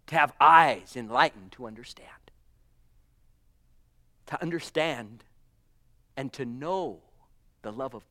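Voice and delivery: breathy whispered preaching; an intimate whisper to the church. Real, not acted. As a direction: whisper it like a secret revelation.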